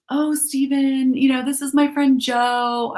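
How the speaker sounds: slow, high coaxing mom; sweet mom voice. Retold or imitated. Mom introducing her friend to her son, sweetly coaxing. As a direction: coax the kid sweetly, like a mom. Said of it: "I'm being the mom being like".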